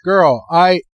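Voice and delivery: lightly voiced sassy know-it-all. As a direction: play it diva-ish and exasperated. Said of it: "He's like".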